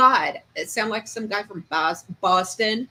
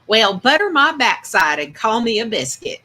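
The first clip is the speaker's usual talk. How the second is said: Southern accent; 3 semitones higher, 6 dB louder than usual. Shown as a demonstration. Streamer saying it on chat's request, hammed-up Southern accent. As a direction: belt out the folksy Southern phrase for chat. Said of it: "because he wants me to say it".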